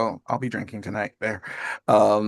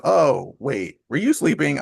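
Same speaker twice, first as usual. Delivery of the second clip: higher, mock-surprised dad; imitated sudden realization; 6 semitones higher, 4 dB louder, slower than usual. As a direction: act out dad's belated realization, pitched up. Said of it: "He goes".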